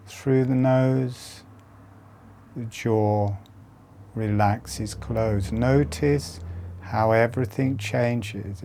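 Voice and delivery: soothing body-awareness cues; guided meditation. Acted. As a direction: talk them through each breath, unhurried. Leads a softer breathing meditation.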